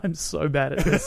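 slow, laughing mock confession; laughing self-mockery. Retelling the band gig, a laughing mock admission. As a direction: laugh through it as a fumbling bandmate.

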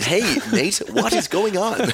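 hammed-up Australian, high and drawn out; Australian accent. Hosts parody themselves for Americans, hammed-up Australian accent. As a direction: stretch out a mock Aussie greeting. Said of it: "doing an Australian accent".

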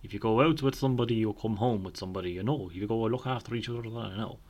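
imitating father in a light Irish country accent; a hint of a rural Irish accent, fatherly advice. Dad giving nightlife advice, lightly in a country accent. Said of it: "I don't know why I said that accent".

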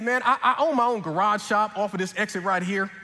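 put-on friendly Southern accent with a laugh in it; a light Southern mechanic's voice; Southern accent, amused storyteller. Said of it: "stick with this accent".

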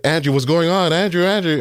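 high, urgent imitation of mom; alarmed mother. Mom hearing her son crying on the phone, alarmed. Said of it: "she just heard me crying".

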